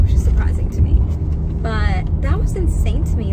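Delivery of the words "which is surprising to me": whispered aside. Real, not acted. Aside about restaurant.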